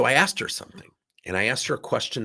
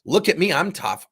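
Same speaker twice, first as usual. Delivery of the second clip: mock tough bragging; 5 semitones higher, 5 dB louder than usual. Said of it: "I don't want this to come off like".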